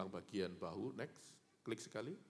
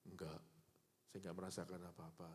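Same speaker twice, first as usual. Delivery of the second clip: weak patient reply; 4 semitones lower, 9 dB quieter than usual. Retold or imitated. Patient answering nurse weakly.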